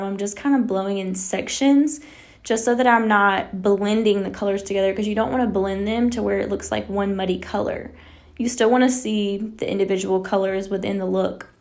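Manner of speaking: out of breath while talking; talking short of breath. Real, not acted. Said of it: "y'all know I gotta catch my breath".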